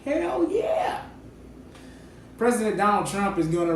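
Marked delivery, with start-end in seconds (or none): 0.0-1.0 high-pitched, drawn-out mock cheer; eager team owner. Team owner jumping at a pitch, high mock-eager voice. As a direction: put on a high voice for an eager yes. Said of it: "To which Bob said".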